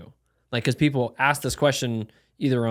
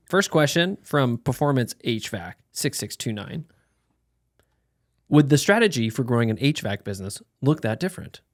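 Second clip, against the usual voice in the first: lightly robotic monotone reading; 3 dB louder than usual. Shown as a demonstration. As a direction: read it like a stiff AI robot. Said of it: "Why you read it like a robot".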